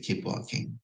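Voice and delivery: unvoiced, soft command; hushed instruction. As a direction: whisper it past the police. Boss whispering at passport control.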